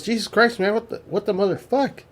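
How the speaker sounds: a jolt of panic, half-played; alarmed soldier. Soldier in the dark after stepping on someone, startled. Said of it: "He goes".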